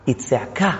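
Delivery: low, soft murmur; hushed intensity. Shown as a demonstration. Teacher saying a whisper is a shout, hushed. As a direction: drop right down for weight.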